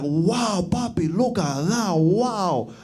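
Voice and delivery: put-on leering Dominican accent, drawn out; slow, admiring Dominican drawl; Dominican cab driver. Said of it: "he was like".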